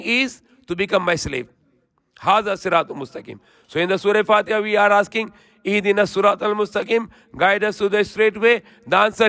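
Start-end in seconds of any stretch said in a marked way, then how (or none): 2.2-3.4 swift, even Quranic recitation. Acted. Preacher reciting the verse to listeners in quick chant. 5.6-7.1 swift, even Quranic recitation. Acted. Preacher reciting the verse to listeners in quick chant.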